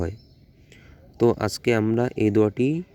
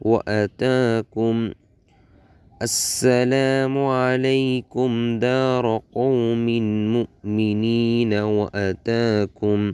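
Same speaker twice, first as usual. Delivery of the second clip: slow, measured reciting with stretched vowels; dua recitation; much slower than usual. Shown as a demonstration. Teacher models the joined phrase for learners, slow recitation. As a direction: join the syllables into a drawn-out recitation.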